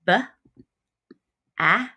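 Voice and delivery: B A T H, letters spaced with long pauses; slow spelling. Shown as a demonstration. Teacher spelling bath aloud with the class. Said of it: "Let's spell it".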